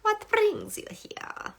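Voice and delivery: breathy high whisper. Retold or imitated. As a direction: whisper the question slowly. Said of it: "you're like".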